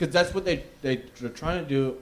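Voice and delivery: talking through chips; chewing chips while talking; mouth full. Real, not acted. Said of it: "I got chips in my mouth".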